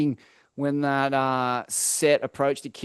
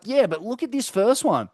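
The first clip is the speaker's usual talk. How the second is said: imitating Slater; 7 semitones higher than usual. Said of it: "He's like".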